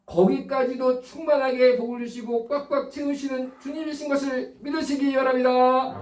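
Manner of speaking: high, drawn-out preaching cry; preaching exhortation. Real, not acted. Preacher exhorts congregation for amen. (높고 길게 외치는 설교 선포)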